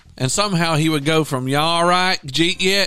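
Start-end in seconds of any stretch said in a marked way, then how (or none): 1.5-2.9 put-on drawling Georgia accent. Imitating an old man who prays, georgia accent. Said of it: "he spoke with an accent like he's from Georgia".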